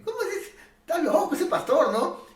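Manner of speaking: high, laughing scoff; laughing mockery. Skeptic laughing at the pastor, high and mocking.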